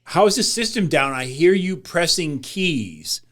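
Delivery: an indignant quote, stretching the last words; exasperated demand. Retold or imitated. Wife retells a complaint to the operator, exasperated.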